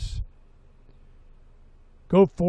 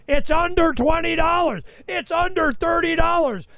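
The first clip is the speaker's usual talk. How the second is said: much higher, urging call; urgent shouting; 11 semitones higher than usual. Retold or imitated. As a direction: yell a tip at friends who won't listen. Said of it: "when I'm screaming".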